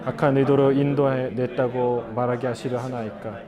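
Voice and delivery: even, level-toned Bible reading; scripture reading. A narrator's reading. Pastor reading the Bible passage to the congregation, evenly recited. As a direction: read the passage aloud in a steady monotone.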